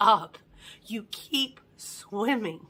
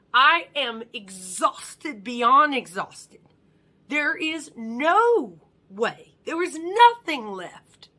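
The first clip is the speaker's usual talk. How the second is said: loud, high and slow, each word pushed out; acted exhausted desperation, emphatic; desperate protest; 5 semitones higher, 7 dB louder, slower than usual. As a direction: insist you are utterly spent. Desperate inner protest, retold.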